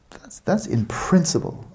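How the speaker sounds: "in principle" lifted high and slowed; stress on in principle. Shown as a demonstration. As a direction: lean hard on "that's in principle", drawn out. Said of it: "and I emphasize the words".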